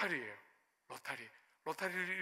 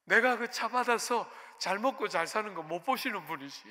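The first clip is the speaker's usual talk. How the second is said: run-on resentful complaint; retold venting, mildly aggrieved; pouring out grievance; 3 dB louder than usual. Pastor venting to God about the car, resentful. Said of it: "이러면서 막 쏟아냈어요".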